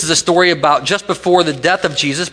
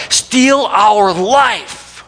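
drawn out, each word slowly; dramatic slow answer; 6 semitones higher, 3 dB louder, much slower than usual. Real, not acted. Preacher answering his own question to the congregation, very slow and weighty. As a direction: let the answer land slowly and heavily.

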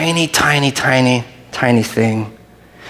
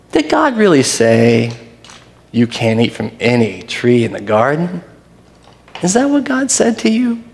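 deceiving serpent; 2 semitones lower than usual. Shown as a demonstration. Preacher reading the serpent's words to Eve as a sly deception. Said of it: "it's fair to inflect then that when he says".

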